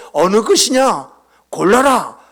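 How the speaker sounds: loud, slow acted demand; imitated Gangwon person. Gangwon person offering an armful to choose from, loud imitation. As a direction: put it bluntly, loud and measured, in imitation. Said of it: "이러한 사람이 강원도 사람이에요".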